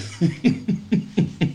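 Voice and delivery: soft airy giggle; breathy laugh. Real, not acted. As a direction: let a quiet unvoiced laugh out. Laughs at own mixing.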